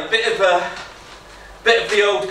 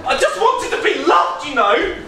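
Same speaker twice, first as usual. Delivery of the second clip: mock anguished shout; 6 semitones higher than usual. Shouting as poet is led off.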